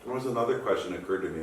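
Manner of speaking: munch a snack between words; chewing while talking. Real, not acted. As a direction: mouth full while talking. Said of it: "I'm sorry I'm munching on this".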